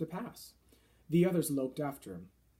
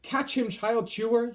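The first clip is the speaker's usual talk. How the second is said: loud, higher, slower call; shouted; 7 semitones higher, 7 dB louder, slower than usual. A narrator's reading. Giants playing catch with the BFG, shouting. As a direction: stretch the shout across the circle. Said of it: "he shouted".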